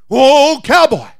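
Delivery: high, loud wheedling snake voice; pleading snake. Acted. Devil snake pleads with cowboy.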